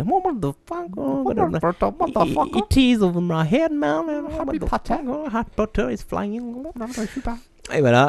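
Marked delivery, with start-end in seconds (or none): 0.0-6.4 voix très aiguë et traînante d'un Anglais affolé; Anglais paniqué imité. Retold or imitated. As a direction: joue le témoin anglais qui panique devant un OVNI. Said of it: "Tu appelais, tu disais". (Anglais affolé, voix perchée et traînée)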